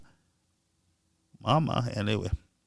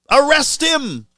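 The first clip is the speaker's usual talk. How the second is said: high, emphatic imitated order to arrest; mock shout; 10 semitones higher than usual. Imitating the speaker ordering police, high mock shout. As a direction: bark the order like the angry speaker. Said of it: "shouting out".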